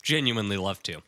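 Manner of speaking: talking while chewing peanuts; mouth full. Real, not acted. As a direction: speak around a mouthful. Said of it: "I'm eating peanuts".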